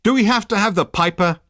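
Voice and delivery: high, loud and exasperated; demanding. Acted. Ford fed up with the bagpiper, demanding. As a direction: insist on an answer. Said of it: "demanded Ford".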